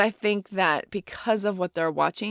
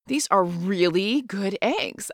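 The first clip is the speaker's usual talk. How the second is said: slow, deliberate wholesome version; clean alternative demo; much slower than usual. Shown as a demonstration. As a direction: spell it out slowly as the polite way. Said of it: "to use your example".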